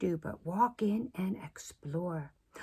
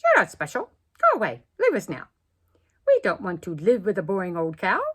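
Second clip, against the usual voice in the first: rude giraffes; 10 dB louder, faster than usual. Acted. Giraffes telling the cow to leave, loud and rude. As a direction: send her off, loud and fast. Giraffes rudely dismiss Miss Moo.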